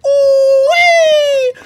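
high shrieking ooh-wee; excited whoop. Real, not acted. Streamer whoops at a super chat, high and loud.

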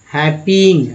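हैपिंग said as hep-ping with a clear ing; pron ing ending. Shown as a demonstration. Teacher shows students हैपिंग ending in ing. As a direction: end हैपिंग on a crisp ing. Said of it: "हैप्पी में इंग जुड़ गया तो हैपिंग हो गया".

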